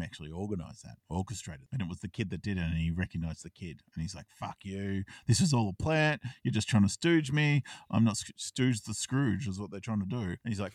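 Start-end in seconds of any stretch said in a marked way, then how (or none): 4.4-10.2 half-acted angry businessman; angry outburst. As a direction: snap back at being tricked. Blake angrily calls out a setup.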